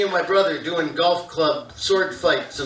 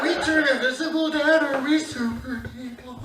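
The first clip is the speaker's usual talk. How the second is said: put-on kid sass; 7 semitones higher, 6 dB quieter than usual. Kid sassing dad.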